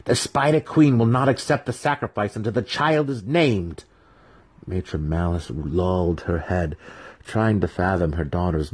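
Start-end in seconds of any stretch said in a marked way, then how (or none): 0.0-3.8 imploring plea. A narrator's reading. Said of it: "she implored her mother".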